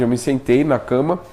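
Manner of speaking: normal talking voice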